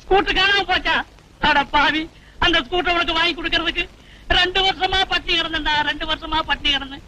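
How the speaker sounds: acted aggrieved outcry; wailing rant. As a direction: wail about the sacrifice you made. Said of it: "ஏன் அலற?".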